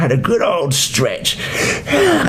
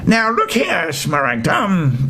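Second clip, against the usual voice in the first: a higher, bossy witch voice opening a telling-off; stern chief witch; 3 semitones higher than usual. Acted. Chief witch scolding Smaragda, high and bossy. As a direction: scold like the head of all witches. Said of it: "began the chief witch".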